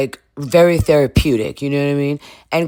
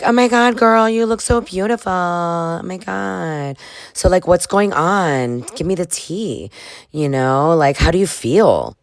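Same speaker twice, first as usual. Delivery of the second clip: mock gushing friend; 5 semitones higher than usual. Sierra gushes on phone call.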